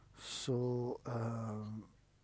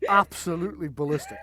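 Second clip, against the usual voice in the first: normal talking voice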